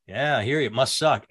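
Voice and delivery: calm neutral. Retold or imitated. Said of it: "completely neutral".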